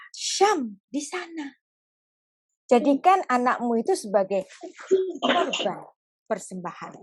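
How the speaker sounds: slow, hushed command; slow, gentle. Acted. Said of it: "Ngomongnya pelan-pelan".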